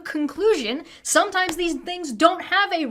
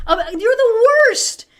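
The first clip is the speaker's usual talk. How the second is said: louder, higher, fed-up dig; exasperated jab; 7 semitones higher, 6 dB louder than usual. Real, not acted. Ending the rant at Americans with a loud jab. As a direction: throw the insult out loud.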